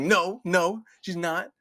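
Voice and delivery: laughing plea. Retold or imitated.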